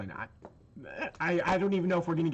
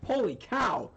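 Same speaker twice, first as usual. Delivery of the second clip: too much caffeine; 4 semitones higher than usual. Real, not acted. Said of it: "I can hear that".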